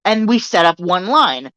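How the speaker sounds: slow, mildly frustrated retelling; frustrated customer. Retold or imitated. Retold customer answers the store worker, mildly frustrated. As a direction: spell it out slowly, a touch fed up. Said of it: "she's getting frustrated".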